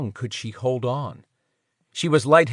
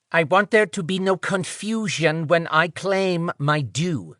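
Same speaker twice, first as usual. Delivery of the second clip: higher nasal male voice; 5 semitones higher than usual. Acted. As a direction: say it pinched, through the nose. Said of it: "nasal voice said".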